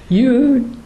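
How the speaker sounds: retold accusation, pitched high at first then settling; mock outrage. Retelling how Evelyn found out the secret, mock indignant. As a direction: playfully imitate an indignant friend. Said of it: "Evelyn just came unglued".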